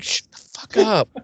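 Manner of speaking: a hammed-up brush-off, drawn out; mock snap. Retold quarrel, curt retort.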